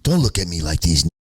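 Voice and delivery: a hint of a nervous suburban guy; mock a rapper. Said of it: "That's how he said it".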